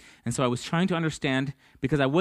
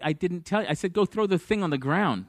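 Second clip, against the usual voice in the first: higher-pitched mock exasperation; exasperated correction; 5 semitones higher than usual. God setting Moses straight about the task, mildly exasperated. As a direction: correct him as if he missed the point.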